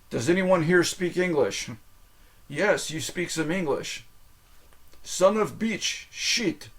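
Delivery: E S L class scene. Retold or imitated. Quoting an E S L class scene from Stripes, hammed-up. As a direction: act out a movie's language class, punching the lines. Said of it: "The guy teaching the E S L class".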